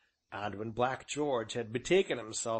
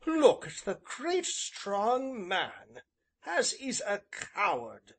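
high, louder, mocking young woman; raised, indignant taunt; scornful girl's cry; 8 semitones higher, 3 dB louder, slower than usual. A narrator's reading. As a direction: hold him up to scorn in a girl's voice. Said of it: "she cried, pointing a finger at him".

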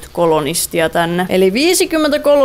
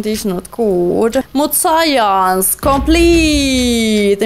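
very slow, spaced-out declaration; lightly hammed drawl; mock robot announcer; much slower than usual. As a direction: intone it like a game voice. Mock broken-English comment.

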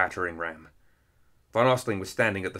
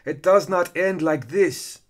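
loud, high, slow defiant cry; villain's enraged outburst; screamed; 9 semitones higher, 7 dB louder, slower than usual. A narrator's reading. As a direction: scream it word by word in fury. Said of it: "Keris screamed".

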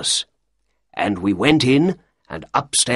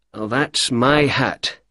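slow careful; 3 semitones higher, much slower than usual. Acted. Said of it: "he spoke slowly, quietly, and carefully".

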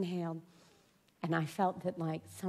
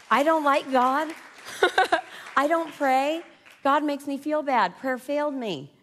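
higher, much louder, outraged; loud outraged protest; 9 semitones higher, 8 dB louder, slower than usual. Retold or imitated. Woman rejecting God and prayer, loud and outraged. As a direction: rail against God with a laugh. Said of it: "I was like".

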